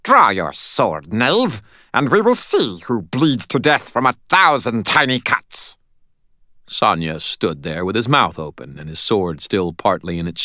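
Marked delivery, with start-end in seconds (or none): 0.0-5.8 high, loud helium-like fairy voice; shrill tiny voice. Acted. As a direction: pipe it like a Shakespearean actor on helium. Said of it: "like a Shakespearean actor on helium".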